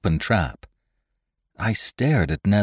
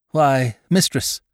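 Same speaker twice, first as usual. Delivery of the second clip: cold voice; 7 semitones higher, slower than usual. A narrator's reading. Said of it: "the cold voice of David Spry".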